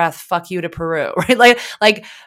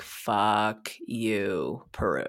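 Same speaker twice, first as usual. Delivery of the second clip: very quiet, very low, hushed mutter under breath; 10 semitones lower, 13 dB quieter than usual. Recalling sitting at the computer while she does something: retelling muttering under breath. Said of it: "under my breath".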